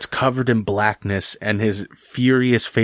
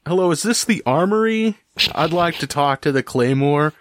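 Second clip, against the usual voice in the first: sword making a phone call; 6 semitones higher than usual. Acted. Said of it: "It's on its little cell phone".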